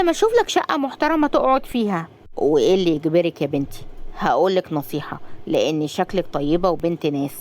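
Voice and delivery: put-on weary old man sharing hard-won advice; lightly voiced old man. Old man tells Razan his sorrow, lightly voiced and weary.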